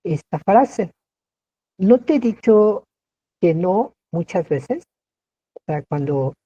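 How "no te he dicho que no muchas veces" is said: mock reproach. Shown as a demonstration. Teacher playing an exasperated speaker, mild reproach. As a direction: scold as if repeating yourself. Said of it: "volvemos a cuestionar y a preguntar".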